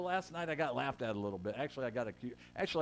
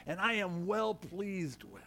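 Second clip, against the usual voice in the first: slow, higher, solemn voice of God; booming heavenly proclamation, drawn out; 5 semitones higher, much slower than usual. Retold or imitated. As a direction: intone it slowly as God speaking from heaven. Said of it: "what did he say".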